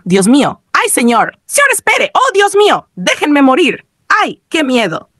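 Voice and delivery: high, pleading panic; panicked. A narrator's reading. Gamer being chased by the character, panicked pleading. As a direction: cry out in mounting panic, pitch leaping up. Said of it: "entró en pánico".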